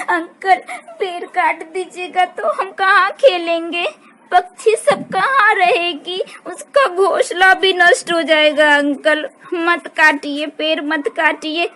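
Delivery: put-on child begging the woodcutter to stop; pleading child. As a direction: gently plead for the birds' nest.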